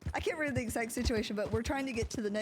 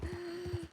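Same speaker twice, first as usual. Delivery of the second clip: acted gasp; 6 semitones higher, 7 dB quieter than usual. Acts out being overwhelmed.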